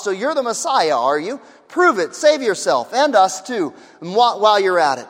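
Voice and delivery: a mild sneer, daring the dying man; scoffing criminal. Acted. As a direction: toss it out as a taunt, half-hearted.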